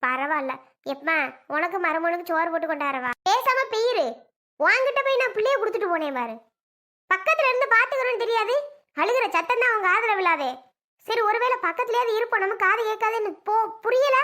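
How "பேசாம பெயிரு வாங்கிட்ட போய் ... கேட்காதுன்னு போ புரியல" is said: higher-pitched, exasperated telling-off; scolding. Acted. Daughter to hard-of-hearing mother over the baby, scolding. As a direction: scold the old woman with rising irritation. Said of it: "என்னமையோ திட்டுற".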